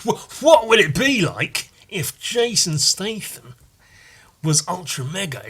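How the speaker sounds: mock-dramatic movie trailer voice; teasing lead-in to an impression; 1 comedy setup. Shown as a demonstration. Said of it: "I've gotta do a comedy bit now".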